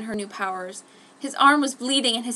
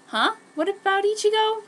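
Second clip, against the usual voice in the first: whispered; 11 semitones higher, 4 dB louder than usual. A narrator's reading. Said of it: "Ryo whispered".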